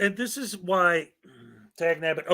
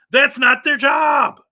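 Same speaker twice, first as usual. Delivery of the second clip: loud, higher, slow "That's not their job"; angry shout; 8 semitones higher, 8 dB louder, slower than usual. Real, not acted. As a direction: slam each word down. Speaker angrily rebuts auditors.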